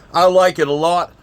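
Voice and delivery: winded, puffing between words; breathless after running upstairs; out of breath. Real, not acted. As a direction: say it still panting from the stairs. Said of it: "Sorry, I'm out of breath".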